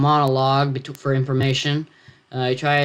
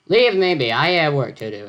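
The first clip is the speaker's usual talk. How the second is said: English yell; 2 semitones higher, 3 dB louder than usual. Acted. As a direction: yell it like an Englishman shooing someone off. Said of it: "Edgar yelled".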